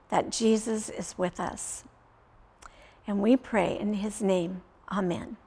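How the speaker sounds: sincere closing prayer. Acted. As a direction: pray aloud with the kids, unhurried. Leads children in prayer.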